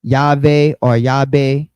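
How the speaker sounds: slow, "Yahweh" said first with a v, then with a b; two Greek renditions. Shown as a demonstration. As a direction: spell out the two variants of "Yahweh" carefully. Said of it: "three different Greek renditions".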